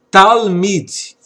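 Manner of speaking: talmid, said clearly with a falling end; model word talmid. Shown as a demonstration. Hebrew teacher models talmid, clear and careful. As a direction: say talmid slowly and clearly for the class. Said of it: "A expressão".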